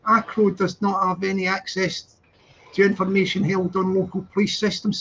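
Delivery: formal letter read out; reading aloud. Real, not acted. Reads out official letter.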